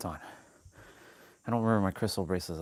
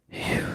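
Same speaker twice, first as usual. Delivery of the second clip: relieved exhale; 6 dB louder than usual. Real, not acted. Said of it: "out of breath already".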